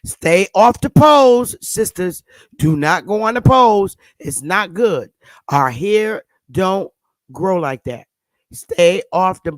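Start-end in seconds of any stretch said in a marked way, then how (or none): 0.0-3.9 mock sermon-style shout; loud warning. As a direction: drag it out as a loud warning to the sisters. Warning sisters off the pose.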